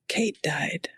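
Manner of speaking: whispered low, holding back tears; tearful whisper. Retold or imitated. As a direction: let the grief barely get the words out. Patient in tears, grief breaking.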